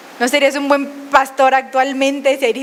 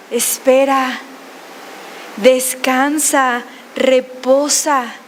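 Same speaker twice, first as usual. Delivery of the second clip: slow, soothing voice of God; gently; much slower than usual. Acted. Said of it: "dice suavemente".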